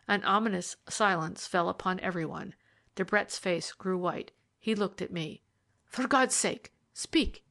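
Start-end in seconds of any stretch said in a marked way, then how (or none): 5.8-7.4 high, urgent plea; anguished, high-voiced appeal; desperate cry. A narrator's reading. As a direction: beg for an answer, voice pitched right up. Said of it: "he cried".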